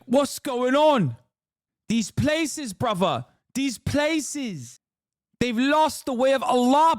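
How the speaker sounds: high-pitched, outraged mock London Salafist, South Asian accent. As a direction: rant like an aggro South Asian London podcaster. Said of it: "when did you unlock a South Asian London accent?".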